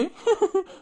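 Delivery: a high burst of laughter; a bright high laugh on a call. Acted. Laughs on the phone.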